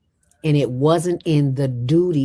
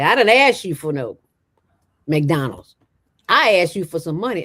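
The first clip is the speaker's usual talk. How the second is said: indignant; 2 semitones higher, 4 dB louder than usual. Retold or imitated. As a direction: retell him taking offence, pushing back. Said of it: "Well, he got indignant".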